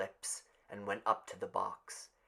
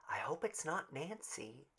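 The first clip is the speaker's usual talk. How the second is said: soft, higher, hushed hope; girl whispering; 4 semitones higher, 8 dB quieter than usual. A narrator's reading. Girl in the crowd to a friend, soft and hushed. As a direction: breathe it to your neighbour. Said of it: "A girl whispered".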